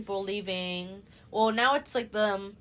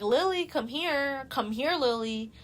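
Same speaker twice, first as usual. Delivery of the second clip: imitated calling out; 5 semitones higher, 4 dB louder than usual. Retold calling someone into his room.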